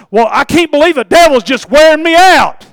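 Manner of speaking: high, loud wailing parody of a complainer; mock complaint. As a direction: cry out the excuse at full voice, hammed-up. Mimics a struggling churchgoer complaining.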